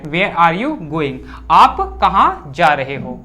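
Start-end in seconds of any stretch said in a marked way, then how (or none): 0.0-1.2 very slow, word by word for the class; slow dictation. Shown as a demonstration. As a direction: spell it out slowly so students can write. Teacher dictating English sentence slowly. (बहुत धीरे, शब्द-दर-शब्द बोलना)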